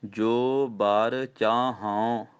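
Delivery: ਜੋ ਬਰ ਚਾਹੂੰ drawn out with a nasal ਚਾਹੂੰ; teacher models the pause; very slow recitation. Shown as a demonstration. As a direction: recite ਜੋ ਬਰ ਚਾਹੂੰ very slowly, then stop. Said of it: "ਇੱਥੇ ਵਿਸਰਾਮ".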